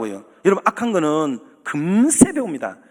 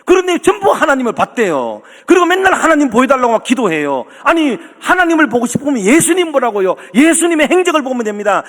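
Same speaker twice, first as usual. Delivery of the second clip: raised, insistent sermon voice; preaching; 4 semitones higher than usual. Acted. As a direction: press the point home to the congregation. Preaches with rising force. (힘주어 설교하는 목소리)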